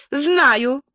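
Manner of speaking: high, irritated retort; snappish. A narrator's reading. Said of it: "огрызнулась Энн".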